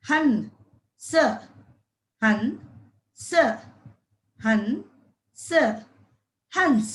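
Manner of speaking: each word drawn out very slowly; slow sounding out. Shown as a demonstration. Teacher sounding out a new word slowly for children. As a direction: stretch the word out so the kids can follow. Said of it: "प्लस अन".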